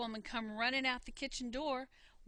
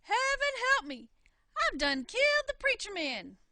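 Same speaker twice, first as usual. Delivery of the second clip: much higher, loud shriek of panic; horrified scream; 10 semitones higher, 10 dB louder than usual. Acted. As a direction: cry out in terror. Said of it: "she let out a big scream".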